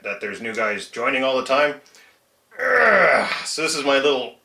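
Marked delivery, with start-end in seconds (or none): 2.6-3.3 loud, high-pitched groan. Real, not acted. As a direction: let out a loud exasperated groan. Groans aloud while explaining his greaser.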